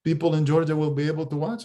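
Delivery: a hint of a Russian accent. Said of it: "he's got the heavy Russian accent".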